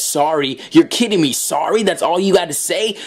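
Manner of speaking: mock incredulous comeback; indignant disbelief. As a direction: play affronted disbelief, pitch climbing. Acted outrage at the apology.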